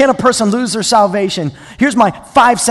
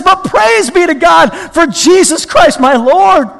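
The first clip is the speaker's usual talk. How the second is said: higher, emphatic preached exclamation; exultant praise; 9 semitones higher, 8 dB louder, slower than usual. Acted. Preacher voicing Paul's praise to God, exultant. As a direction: proclaim it to the congregation.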